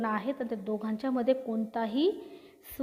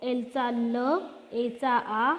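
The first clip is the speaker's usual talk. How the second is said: slow sounding out; much slower than usual. Shown as a demonstration. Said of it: "बीचा उच्चार ब".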